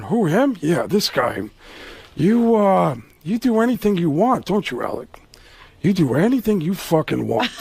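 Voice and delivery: lightly voiced sneering Pacino; a hint of Pacino's menace, mocking; Pacino impression. Pacino needling Alec in the elevator, lightly voiced. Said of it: "Pacino's looking at him going".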